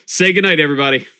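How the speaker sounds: bright call to everyone; rally everyone to say good night; cheerful call-out. Real, not acted. Host cues group goodbye.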